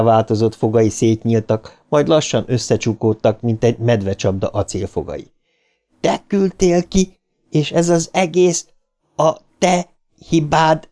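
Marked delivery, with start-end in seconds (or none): 6.0-10.9 high, halting eerie voice; pitched-up dead child, spacing out the blame; ghostly accusation. A narrator's reading. George accuses his brother of sending him out, high ghostly voice.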